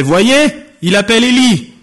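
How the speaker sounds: high, urgent calling out; excited call. Acted. Bystanders telling each other he calls a prophet, excited call. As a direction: call to the others with pitch jumping up.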